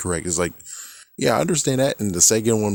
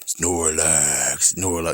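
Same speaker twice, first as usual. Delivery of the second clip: Pokemon saying its name; 4 semitones lower, much slower than usual. Retold or imitated. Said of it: "the Pokemon saying their names".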